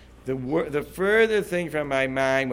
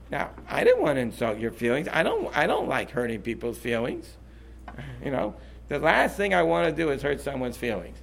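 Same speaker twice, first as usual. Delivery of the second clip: sincere apology; 3 dB quieter than usual. Shown as a demonstration. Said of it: "demonstrates a sincere apology".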